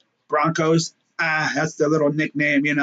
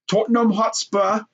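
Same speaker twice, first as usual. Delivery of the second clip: lightly put-on British accent; higher-pitched mock British pronunciation; 5 semitones higher than usual. Vlogger hamming up the London club's name, mock British accent. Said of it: "you can really do a good British accent".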